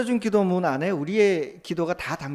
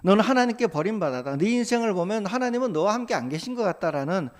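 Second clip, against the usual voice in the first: mock taunt; 4 semitones higher, 3 dB louder than usual. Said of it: "이런 조롱을 한다는 거예요".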